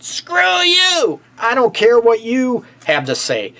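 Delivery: high-pitched mock partner's retort, drawn-out first words; defiant outburst. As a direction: act out a fed-up partner lashing back. Acted partner shutting out the other.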